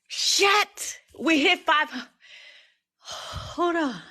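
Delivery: real joy breaking out high; excited yelp. Real, not acted. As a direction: shriek at the milestone. Hits the likes goal live.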